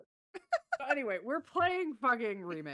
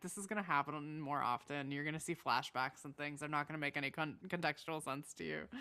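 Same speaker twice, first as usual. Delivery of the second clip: quiet warning; 7 semitones lower, 7 dB quieter than usual. Retold or imitated. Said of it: "I'm like".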